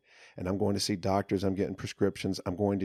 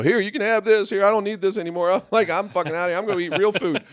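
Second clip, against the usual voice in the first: much higher, loud happy giveaway; handing out his commissary on release day; giddy; 12 semitones higher, 9 dB louder, faster than usual. Retold or imitated. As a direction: toss the words out gleefully. Giving away commissary, elated.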